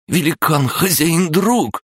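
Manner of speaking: very high, joyful crab voice; snappy clicking crab. Acted. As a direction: squeal with delight.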